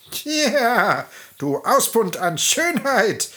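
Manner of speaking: taunting witch voice; mocking hag. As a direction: sneer down at the fallen girl. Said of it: "spottete die Alte".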